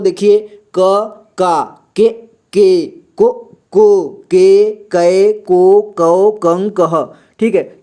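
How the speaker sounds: slow syllable-by-syllable recitation of क का कि की; drilled Hindi syllable chant; recited barakhadi. Shown as a demonstration. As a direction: chant the syllables one by one like a teacher. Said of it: "और इसे कैसे पढ़ते हैं दोस्तों".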